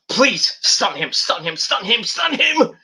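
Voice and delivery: chanting plea rising high at the end; fans begging. Retold or imitated. Fans pleading with Owens to stun him. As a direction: beg him to stun him like a crowd. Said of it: "they're like".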